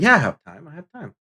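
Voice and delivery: imitating own keen yes; retold eagerness. Retold eager answer to an invitation.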